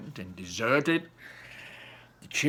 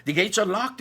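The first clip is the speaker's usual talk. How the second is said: mild crowd shout, louder at the end; 4 semitones higher, 3 dB louder than usual. Acted. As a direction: call out the puzzle to the crowd. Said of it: "the people shouted".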